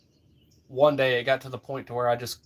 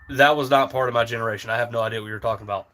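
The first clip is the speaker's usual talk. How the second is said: fast, lightly voiced friend; quoting Patrick, rushed; 3 semitones lower, faster than usual. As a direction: rattle it off quickly, baffled. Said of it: "he's like".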